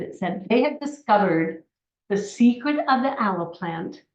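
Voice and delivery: ordinary talk, nothing marked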